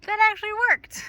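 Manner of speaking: high, loud happy surprise; pleased the trick worked; delighted surprise. Real, not acted. Birds arrive after calling.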